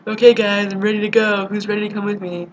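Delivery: rally the group with playful eagerness; acting pumped-up. You rallying friends to go out on Friday, pumped. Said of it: "still pumped and you're like".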